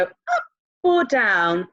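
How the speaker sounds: UP lifted, DOWN falling and stretched; slow teacher contrast of UP and DOWN; pitch shows direction. Shown as a demonstration. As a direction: act out the direction on UP and DOWN. Voicing which way line goes.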